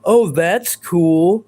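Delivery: slow, sneering mimicry of a troll; mocking impression. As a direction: drag it out like a smug know-it-all. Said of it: "you're not gonna be like".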